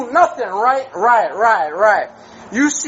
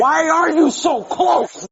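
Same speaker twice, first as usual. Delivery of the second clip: shouting; 4 semitones higher, slower than usual. Real, not acted. Drunk man resisting police.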